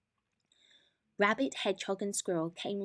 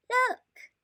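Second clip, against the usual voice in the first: high, louder call; excited call; 8 dB louder than usual. A narrator's reading. Squirrel calls the friends to see the moon, high and excited. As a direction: point and call out in delight.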